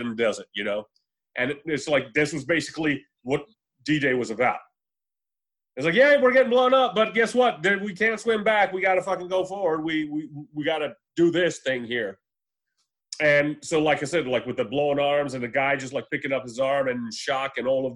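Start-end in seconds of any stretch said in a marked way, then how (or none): 6.0-12.2 loud, high start easing back to normal; acted soldier urging everyone forward; urgent rallying cry. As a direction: push through it, raised voice settling into resolve. Acting out soldiers pushing on at D-Day.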